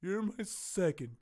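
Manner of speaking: slow, grave mock samurai request; a hint of solemn ritual gravity, drawn out; lightly acted solemn friend asking for a beheading; quoted suicidal friend. Friend on phone wanting seppuku.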